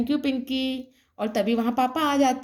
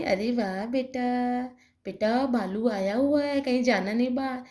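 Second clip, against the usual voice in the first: lower mother voice; 3 semitones lower than usual. Acted. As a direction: speak like a mother cautioning her little girl. Mother warns daughter.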